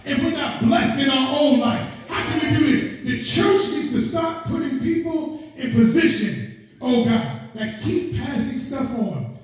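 rolling, insistent sermon questions; urgent pulpit exhortation; impassioned preaching. Real, not acted. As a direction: press the congregation like a fired-up preacher. Preaches at full force.

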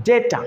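ডেটা with a stretched "ay"; long A in ডেটা. Shown as a demonstration. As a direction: say ডেটা as "day-ta", first vowel long. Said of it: "একটু লম্বা করে বলতে হয়". (ডেটা-র এ লম্বা করে উচ্চারণ)

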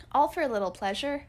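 mock outrage rising on ALL; indignant echo. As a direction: throw her words back, offended. Indignant echo of mother's words.

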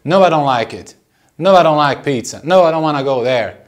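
"don't" said as "don", with the T left off; dropped final T. Shown as a demonstration. Teacher showing learners natural rhythm, "don't" without its T. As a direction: run "don't" into the next word, no T. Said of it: "esse T do don't, você nem pronuncia".

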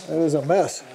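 muffled behind a face mask; through a plague doctor mask. Real, not acted. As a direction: talk through a covering mask. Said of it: "I'm sorry, I didn't hear you".

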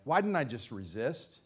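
low, soft, rueful question; hushed self-reproach, dropping low; regretful looking back. Acted. Believer looking back on not resisting the devil, quietly rueful. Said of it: "you'll look back and say".

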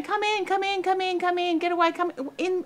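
high anxious calling out; calling kids in from sea. Retold or imitated. Mother on the beach calling her kids out of the surf, high-pitched and anxious. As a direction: call the kids in from the water, high and urgent. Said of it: "the woman in the beach going".

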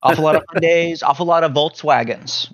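high, fast, smug questioning; smug rhetorical. Real, not acted. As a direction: lay out the proof with a smirk. Mock-proof rhetorical questions.

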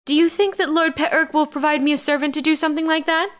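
high-pitched, put-on whiny voice; whining. A narrator's reading. Karen's mother whining for a servant to shade her. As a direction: whine it high, all the way through. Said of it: "Karen's mother whined".

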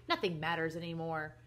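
understated gloomy resignation; a touch of woe, lightly acted; mournful. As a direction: sigh it out like a man giving up. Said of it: "said Mister Carmody mournfully".

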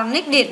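"địt" as its own syllable after "nick"; added -ed ending. Shown as a demonstration. Teacher showing pupils the -ed ending, "địt" sounded out. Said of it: "thêm i đê vào là".

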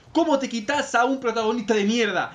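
hint of Argentine reviewer; Argentine accent. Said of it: "era argentino".

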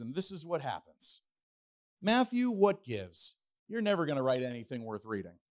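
hammed-up disappointed teacher scolding the class; mock scolding. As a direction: pretend to chew out each disciple by name. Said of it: "Could Jesus have said those things?".

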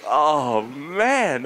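drawn-out sigh of mock bliss; smiling relief. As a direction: say it through a relieved smile. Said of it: "such a relief, and I was smiling".

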